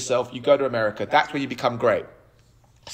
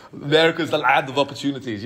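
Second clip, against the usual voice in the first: a lightly done Austrian bodybuilder voice, only slightly off his own; a hint of Arnold, played for laughs; a loose, light Schwarzenegger take; Arnold Schwarzenegger impression. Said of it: "I thought he was in the room then".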